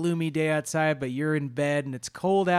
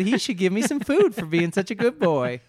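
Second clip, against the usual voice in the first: sweet pleading cat; 4 semitones higher, 3 dB louder than usual. Retold or imitated. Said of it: "that's what Marv's trying to do".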